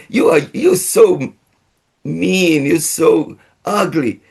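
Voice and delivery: high, cooing sing-song voice to a dog; happy sweet tone. Shown as a demonstration. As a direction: sweet-talk the dog while insulting it. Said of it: "They react depending the tone of my voice". (nada tinggi yang manis dan riang)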